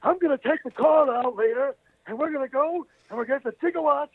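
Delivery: high, frantic Doc Brown voice; wild-eyed scientist rushing through the plan; Christopher Lloyd impression. Showing how Christopher Lloyd talks, high and frantic. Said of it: "kinda talks like this".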